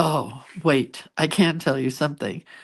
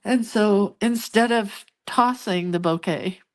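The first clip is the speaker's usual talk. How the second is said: real tears catching in a higher, cracking voice; fighting back tears while telling it; choked up, on the edge of crying; voice breaking; 4 semitones higher than usual. Real, not acted. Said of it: "I'm gonna cry even talking about it".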